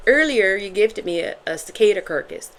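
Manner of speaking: amateur put-on Irish accent; playful attempt at an Irish accent. Shown as a demonstration. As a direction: try it in a Derry Girls Irish accent. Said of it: "I kept saying it in an Irish accent".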